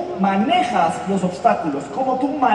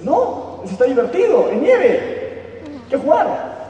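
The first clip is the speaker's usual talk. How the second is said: higher, bouncy carefree dog voice; playful dog; 6 semitones higher, slower than usual. Acted. Dog tells the wolf snow is fun, high and playful. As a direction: answer like a happy pup in the snow.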